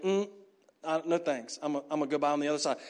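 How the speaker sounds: quick, low mock refusal; dismissive brush-off. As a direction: mumble a hurried no-thanks as you hurry by. Priests shun the wounded man.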